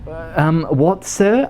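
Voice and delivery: high, timid service voice; puzzled, polite high-pitched clerk; baffled attendant. Pretend. Attendant questions a customer's order, baffled high voice.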